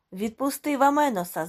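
loud high shout at the bully. A narrator's reading. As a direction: yell it across the bar. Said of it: "закричав Мартінес".

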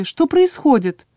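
high, slow plaintive question; bewildered patient. A narrator's reading. Patient asks drow what is happening, high bewilderment. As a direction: sound lost, voice lifted high.

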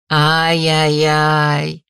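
tut-tutting. A narrator's reading. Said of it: "покачала я головой".

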